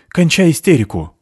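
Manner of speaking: high, loud rebuke; stern shout. Acted. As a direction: snap him out of it. Merit snaps at hysterical man.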